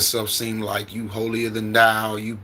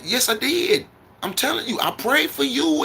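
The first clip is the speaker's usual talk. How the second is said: insisting. Retold or imitated. Insisting to his aunt.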